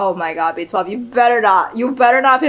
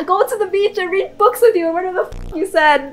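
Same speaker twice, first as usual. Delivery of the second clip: tearful; 6 semitones higher than usual. Real, not acted. Crying over companion's sacrifice.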